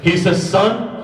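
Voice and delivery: high, loud, slowed preacher voice; preacher at full force recounting Qadi's advice; impassioned preaching. Acted. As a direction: preach it with fervour, pressing each line.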